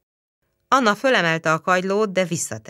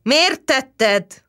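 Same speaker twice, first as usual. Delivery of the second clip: higher, louder roar; mild roar; 8 semitones higher, 4 dB louder than usual. A narrator's reading. Policeman roaring at the girl, higher and louder. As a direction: shout it at her face. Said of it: "ordított rá a rendőr".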